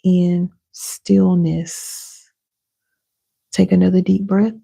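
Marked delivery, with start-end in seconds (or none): 0.0-2.3 very slow, stretched, drawn-out words; slow calm affirmation. Shown as a demonstration. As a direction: let each word settle into stillness.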